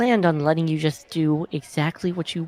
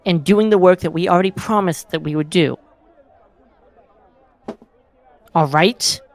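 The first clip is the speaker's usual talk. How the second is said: angry; 4 dB louder than usual. Acted. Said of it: "I got a little angry".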